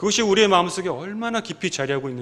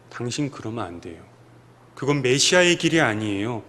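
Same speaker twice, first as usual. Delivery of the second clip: mildly scold, not pleading but correcting; scolding rebuke; 3 semitones lower than usual. Retold or imitated. Peter rebuking Jesus rather than pleading, understated scold. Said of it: "꾸짖는 거예요".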